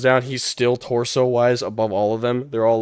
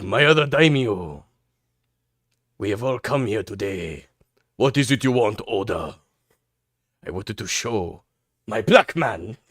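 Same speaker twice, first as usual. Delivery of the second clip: pompous daimyo lord. Acted. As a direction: announce it like a feudal lord presenting a prize. Acting out lords' meeting.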